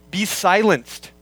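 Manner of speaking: slow, deliberate "Be silenced"; passive command. Shown as a demonstration. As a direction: stretch out both words as a decree. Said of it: "given in the passive voice".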